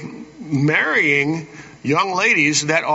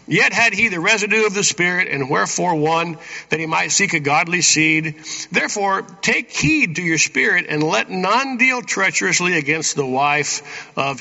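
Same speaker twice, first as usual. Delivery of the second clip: emphatic, slightly raised reading voice; scripture reading. Acted. Preacher reads the verse to the congregation, emphatic scripture reading. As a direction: read the verse out with measured emphasis.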